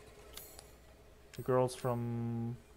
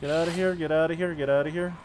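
forceful repeated shouts; loud; 3 semitones higher, 5 dB louder, faster than usual. Real, not acted. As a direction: drive them off, loud. Fighting off enemy.

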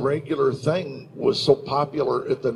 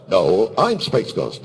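slow, lower superhero comeback; Space Ghost rivalry; 5 semitones lower, slower than usual. Retold or imitated. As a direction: correct a rival hero, slowly and low. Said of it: "back and forth we do the".

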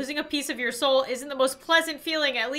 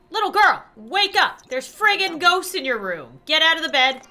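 calling out; 3 semitones higher, 6 dB louder than usual. Acted. Waking sim girl about ghosts.

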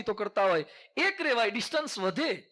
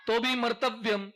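ordinary delivery

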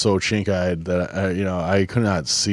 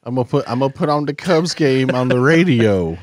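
high, loud put-on old fan voice; laughing, exaggerated old codger; mock old-timer; 7 semitones higher, 6 dB louder than usual. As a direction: ham up an elderly radio listener. Joins in as elderly radio listener.

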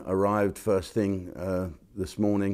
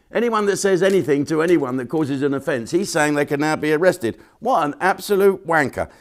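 loud, high, incredulous ranting; outraged rant; 8 semitones higher, 8 dB louder than usual. Real, not acted. Ranting to viewers about the First Minister, loud and high. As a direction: blast it out in disbelief.

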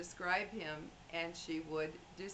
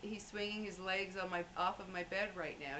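a hint of a fond elderly lady, pitched up; gently imitating the dying woman's delight; lightly voiced old woman; 3 semitones higher than usual. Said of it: "she would say".

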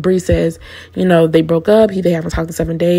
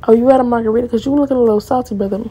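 lightly mocking, higher shady jab; shady quip; 5 semitones higher, faster than usual. Imitating him mocking the rival, lightly shady. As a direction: toss the line slyly. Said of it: "He said".

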